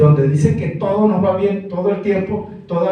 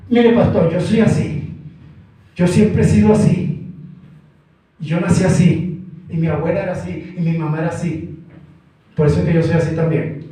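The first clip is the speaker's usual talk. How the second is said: stubborn churchgoer. Retold or imitated. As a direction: play the defiant sister. Stubborn quarrelling sister answers pastor.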